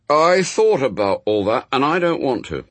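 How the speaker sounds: put-on high, loud, indignant boy; Adam, protesting boy. A narrator's reading. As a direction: argue like a child who finds it all unfair.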